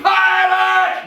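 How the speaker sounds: pirate shouted very high and loud; full shout. Shown as a demonstration. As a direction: yell pirate at full power. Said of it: "shout it".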